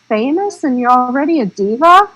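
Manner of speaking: incredulous. Retold or imitated. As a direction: retell your appalled reaction to a diva. Retells reaction to demanding actor.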